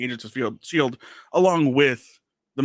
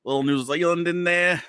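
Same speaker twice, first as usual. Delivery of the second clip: put-on muddled Australian and New Zealand accent; put-on Australian-ish accent. Host puzzles over his own voice in a put-on Australian accent. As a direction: muse aloud in a wobbly Australian accent. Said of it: "It's a bit of accents".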